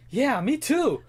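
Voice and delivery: high, loud laughing retort. Retold or imitated. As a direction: burst out laughing at the reply. Retorting to airport clerk, laughing.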